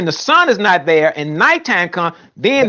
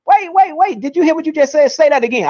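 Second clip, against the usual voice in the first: higher, rapid-fire interjection; urgent interruption; 4 semitones higher than usual. Real, not acted. Debater cutting in on his opponent's claim, urgent. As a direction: jump in urgently to halt the speaker.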